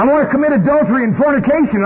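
greedy earth suit begging to sin; the sinful body. Acted. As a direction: whine it like flesh hungry for sin. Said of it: "You know".

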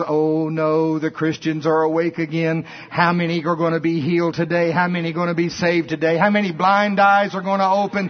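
a devil in a fright at waking Christians; panicking devil. Retold or imitated.

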